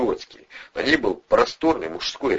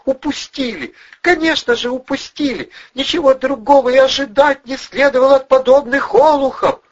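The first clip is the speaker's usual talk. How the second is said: despairing scream; 6 dB louder than usual. A narrator's reading. Blonde realizing they let him escape, despairing cry. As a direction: wail it in despair.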